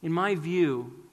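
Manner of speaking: slow, halting, emotion held back; mild retold struggle, slow and halting; struggling to speak. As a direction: push the words out against rising tears. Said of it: "he struggled to say".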